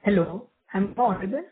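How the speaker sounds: muffled, as if from a distant speakerphone; dull, covered-up voice on a bad line. Real, not acted. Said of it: "So your voice sounds muffled".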